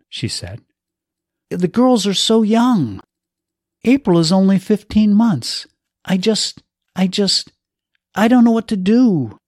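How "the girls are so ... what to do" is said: higher, halting plea of a lost man; husband pleading about his young daughters, despairing; desperate grief. A narrator's reading. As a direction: let the helplessness spill out. Grieving husband breaks down.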